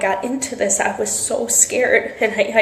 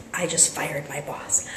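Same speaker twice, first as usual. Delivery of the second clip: soft and slow, hardly daring to say it; hushed disbelief; 5 semitones lower, 10 dB quieter than usual. Real, not acted. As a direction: let it sink in under your breath. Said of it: "I can't be too loud".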